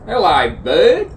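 lifted, questioning hello; high greeting. Pretend. Saying hello to bud, high and rising. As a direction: swoop upward at the end of the greeting. Greeting, repeated higher as bird call.

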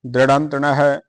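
ਦ੍ਰਿੜੰਤਣ pronounced dri-rhan-tan, carefully; pronunciation demo. Shown as a demonstration. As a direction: model ਦ੍ਰਿੜੰਤਣ syllable by syllable. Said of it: "ਇਹਨੂੰ ਉਚਾਰਨ ਕਰਨਾ ਹੈ।".

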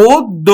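অদ্য said as oddo, first o closed, doubled d; slow, careful অদ্য with a long double d; অদ্য as oddo, the o stops before the d; pronounce it right. Shown as a demonstration. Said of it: "এখানে ও থেমে যাচ্ছে".

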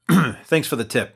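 usual speaking voice

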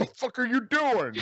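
put-on French Canadian accent. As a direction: shout it again in thick French Canadian. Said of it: "really good French Canadian accent".

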